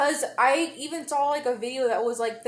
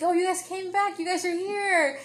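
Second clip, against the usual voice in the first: lightly acted, higher-pitched glad greeting; relieved Nami; 5 semitones higher, 3 dB quieter than usual. Retelling Nami welcoming the guys back, higher mock relief. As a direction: imitate a friend greeting returning crewmates.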